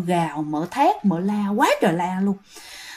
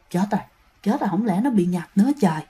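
worried hushed muttering; 3 semitones lower, 5 dB quieter, faster than usual. Retold or imitated. Aunt fears possession, mutters to herself.

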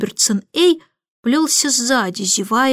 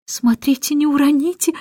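anxious warning; 4 semitones higher than usual. Acted. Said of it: "взволнованно сказала миссис Брил".

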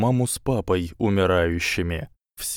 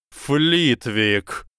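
higher yelled name; yelling; 5 semitones higher than usual. A narrator's reading. Quirrell yells to Flitwick, shouting. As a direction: yell across the room. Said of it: "заорал профессор Квирл".

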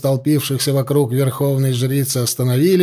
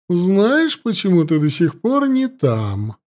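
higher-pitched, menacing priestess taunting her captive; gloating high priestess; 5 semitones higher, slower than usual. Acted. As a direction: savour every threat like a cruel priestess.

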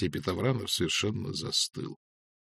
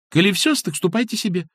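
much higher impatient urging; hurrying him; 10 semitones higher, 4 dB louder than usual. A narrator's reading. Masha hurries the lingering customer away, higher. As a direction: shoo him along impatiently. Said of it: "поторопила его Маша".

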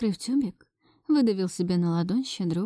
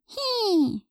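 put-on high baby squeal "Хи"; 12 semitones higher than usual. A narrator's reading. Baby Vasya squeals happily in agreement. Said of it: "взвизгнула Вася".

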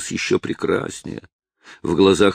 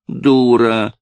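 sharp scolding shout, higher and louder; angry shout; 5 semitones higher, 6 dB louder than usual. Acted. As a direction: bark it at the girl like a furious old woman. Old woman scolds girl. (гневный окрик старухи)

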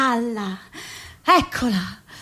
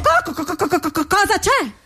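stuck on the first syllable; a stammering president answering; faster than usual. Acted. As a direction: trip over co before getting the question out.

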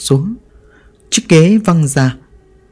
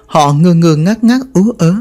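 usual speaking voice

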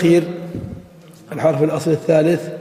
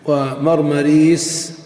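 drawn out; much slower than usual. Shown as a demonstration. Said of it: "teacher drawing out example word".

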